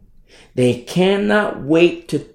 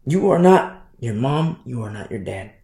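not abrasive; 3 semitones lower than usual. Real, not acted. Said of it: "I don't mean that to sound abrasive".

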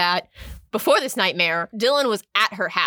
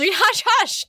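mock enthusiasm; 11 semitones higher than usual. Mock-enthusiastic book plug.

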